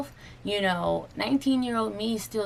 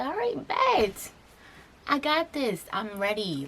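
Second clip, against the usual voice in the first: pumped up; 4 semitones higher than usual. Retold or imitated. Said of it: "I was like".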